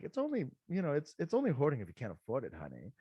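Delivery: a lightly done fake upper-class English accent. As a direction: imitate a snooty faux British client, lightly. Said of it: "literally told to me in that accent".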